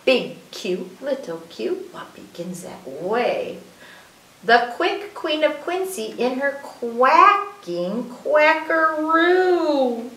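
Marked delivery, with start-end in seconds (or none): 4.4-10.1 slow, stretched-out picture-book line; playful reading. Shown as a demonstration. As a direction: draw out every Q word with relish.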